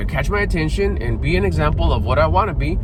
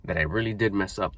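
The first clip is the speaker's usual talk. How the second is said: calm self-talk; 4 semitones lower, 6 dB quieter than usual. Retold or imitated. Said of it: "and say".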